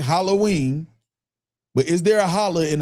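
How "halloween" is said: "Halloween" in a relaxed Midwest slang way, rising at the end. Shown as a demonstration. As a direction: say "Halloween" loosely, like everyday slang. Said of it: "like slang".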